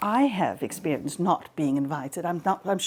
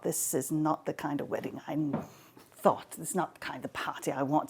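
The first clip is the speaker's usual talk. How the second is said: grumbling Zeus; 4 semitones lower, 6 dB quieter than usual. Acted.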